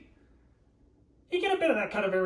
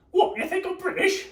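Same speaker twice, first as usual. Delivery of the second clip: asked through a laugh, higher and louder; laughing question; 9 semitones higher, 5 dB louder than usual. Real, not acted. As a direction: tease the chat while laughing. Laughs at a chat guess.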